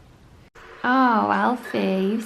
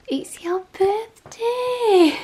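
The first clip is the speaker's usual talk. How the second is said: slow, breathy stage whisper full of excitement; excited whisper; 6 semitones higher, 7 dB louder, much slower than usual. Real, not acted. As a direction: whisper the surprise like a secret. Surprising dog on his birthday.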